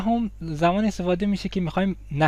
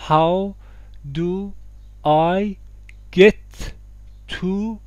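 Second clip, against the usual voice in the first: کلمه به کلمه; much slower than usual. Shown as a demonstration. Structure dictated word by word.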